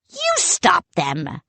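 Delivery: slow, high shout. A narrator's reading. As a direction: snap it back at the other head. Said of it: "Salty shouted".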